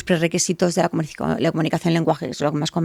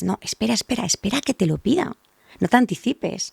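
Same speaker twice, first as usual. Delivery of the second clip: put-on gently holding back the child; 3 semitones higher than usual. Shown as a demonstration. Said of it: "se lo da al padre y es". (padre pidiendo al niño que espere, en voz suave y alta)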